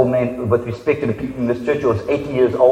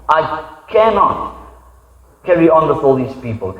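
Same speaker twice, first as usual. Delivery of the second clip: frustrated. Retold or imitated. Moses telling God the burden is too heavy. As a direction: drag the words out, exhausted. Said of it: "You can hear the frustration in his voice".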